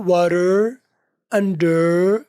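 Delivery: "वाटर, under" with the endings lightly sounded; slight final R. Shown as a demonstration. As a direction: let a little R finish "वाटर" and "under". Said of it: "आखिर वाला ई आर थोड़ा सा बोल भी लो".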